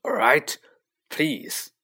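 high, exasperated giving-in; grudging outburst. A narrator's reading. Filch giving in to Peeves.

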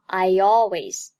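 "I always" joined with a y glide; linked pronunciation. Shown as a demonstration. Teacher reading I和always连读 for learners, "I always" linked. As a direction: slide from "I" into "always" through a y sound. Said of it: "I和always连读".

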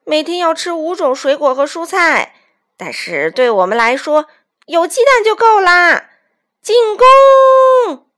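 loud scoffing building to a high yell; villain's shout. A narrator's reading. Bandit chief ending talks and attacking, shouting.

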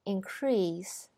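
whispered increase stressed on CREASE; verb stress. Shown as a demonstration. Teacher repeats the verb in a whisper, stress on CREASE. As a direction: breathe increase, weight on CREASE. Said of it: "后边是动词".

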